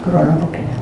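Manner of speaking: ordinary delivery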